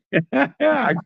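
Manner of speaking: reenacted pleased chuckle; retold gleeful laugh. Hearing the bad neighbor is selling, retold gleeful laugh. Acts out own reaction to news.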